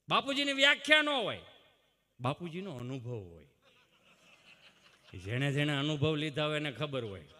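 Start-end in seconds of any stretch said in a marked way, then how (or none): none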